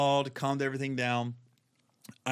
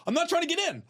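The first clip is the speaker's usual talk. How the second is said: pleading; 4 dB louder, much faster than usual. Retold or imitated. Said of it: "I'm going".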